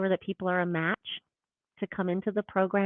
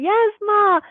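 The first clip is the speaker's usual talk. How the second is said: put-on dutiful child; 13 semitones higher, 9 dB louder than usual. Repeats her motto.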